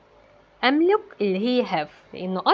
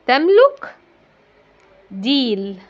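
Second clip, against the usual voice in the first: rising teacher question; 2 semitones higher, 5 dB louder, much slower than usual. Shown as a demonstration. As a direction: lift تملك up as a question to the class. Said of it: "القطة". (سؤال بنبرة عالية على تملك)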